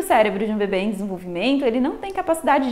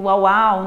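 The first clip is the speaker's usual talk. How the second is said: imitated dog woof; 3 semitones lower, 5 dB louder than usual. Shown as a demonstration. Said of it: "ou repete um som".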